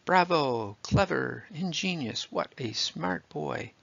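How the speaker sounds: mildly voiced cheering crowd. A narrator's reading. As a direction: cheer the boy on. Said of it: "Loud applause and cheers burst out".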